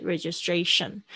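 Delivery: "registration" with all four syllables distinct; clearly articulated syllables. Shown as a demonstration. Teacher models "registration" without slurring, clearly articulated. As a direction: articulate each part of "registration". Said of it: "不要就是含糊念过去".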